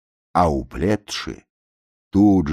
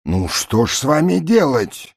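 raised, sighing voice; resigned barge men; 10 semitones higher, 4 dB louder than usual. A narrator's reading. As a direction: give up on them. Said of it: "говорят те". (смиренный вздох с баржи)

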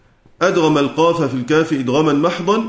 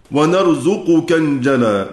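verse recitation; slower than usual. Acted.

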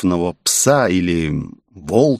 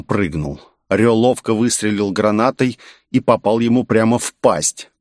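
ordinary delivery

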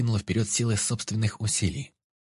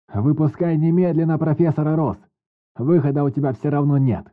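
loud demand; 7 semitones higher, 8 dB louder than usual. A narrator's reading. Negotiator demands release.

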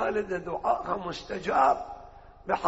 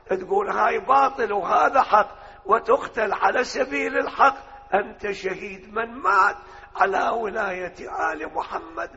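rising preaching; 4 dB louder than usual. Acted. Preaching builds to the martyr line.

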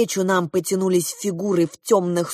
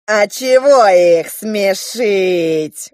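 surprised; 6 dB louder, much slower than usual. Acted. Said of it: "удивился".

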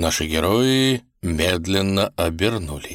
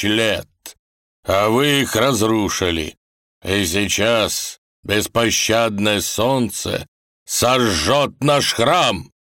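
put-on stern old man; 3 semitones higher, 3 dB louder, slower than usual. Old man voiced in story.

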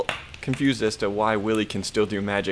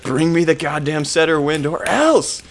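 loud, higher-pitched monster threat; badger monster; 6 semitones higher, 6 dB louder than usual. Monster demanding the setter wind, hammed-up roar. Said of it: "the Badger monster".

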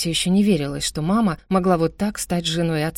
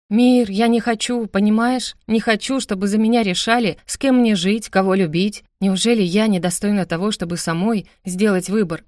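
desperate plea; 4 semitones higher than usual. Acted. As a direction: pour out the despair. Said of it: "отчаянно заговорила я".

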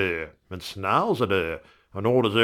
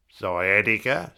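puzzled question. Acted. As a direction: drawl "Sciatica?" like a strange word. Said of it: "says I".

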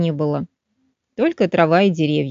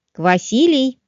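calling out; 4 semitones higher, slower than usual. Acted. Mother calls her son.

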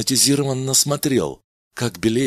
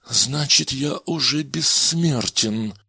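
slow, wondering words; slowly spoken; 5 semitones higher, slower than usual. Acted. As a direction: let it sink in slowly. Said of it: "медленно проговорил Кадена".

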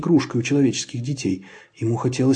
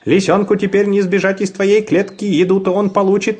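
man's voice; 7 semitones higher, 4 dB louder than usual. A narrator's reading. Man teases the chick.

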